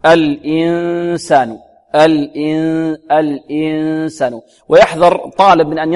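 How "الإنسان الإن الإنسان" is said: long held nasal ن in الإنسان, poised for the س; ikhfa. Shown as a demonstration. Teacher modelling the hidden noon, held ghunnah in الإنسان. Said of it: "ويتهيأ المخرج لما بعد النون".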